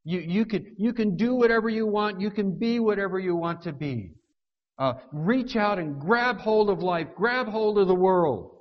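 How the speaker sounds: mock commencement speaker pumping up graduates; motivational speaker. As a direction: graduation speaker psyching the crowd up, mock rousing. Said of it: "they tell the graduates".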